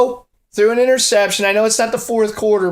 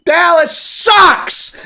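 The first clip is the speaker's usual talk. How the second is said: slow, loud drawn-out taunt; gleeful jeer; 8 semitones higher, 5 dB louder, much slower than usual. Real, not acted. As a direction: stretch it out, rubbing it in. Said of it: "I can say that again".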